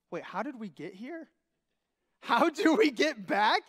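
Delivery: dawning worry turning to alarm; lost hiker asking friend, worry growing loud; worried. Retold or imitated. Realising they are lost.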